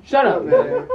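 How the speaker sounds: sudden high, loud shout; mock heckling yell. Fan heckles the actress, high mock yell. Acts out fans yelling catchphrase.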